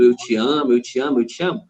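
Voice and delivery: mock repetitive droning of I love you; mechanical repeating. Boyfriend's I love you shown as rote, mechanical repetition. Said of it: "como se ele estivesse repetindo".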